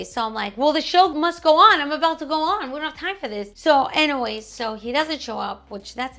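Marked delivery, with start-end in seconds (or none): 0.6-3.5 mock exasperated. Stressed performer snapping backstage.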